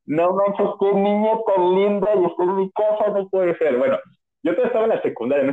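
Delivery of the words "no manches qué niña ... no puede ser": put-on breathless, higher gush over a pretty girl; awestruck teen crush. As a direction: gush like a starstruck teenager. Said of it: "o sea, si era de".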